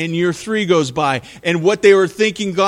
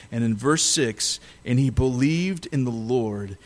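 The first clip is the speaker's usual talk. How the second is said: lower, measured Bible reading; scripture reading; 3 semitones lower than usual. Acted. Preacher to congregation, a solemn scripture reading. Reads the scripture passage aloud.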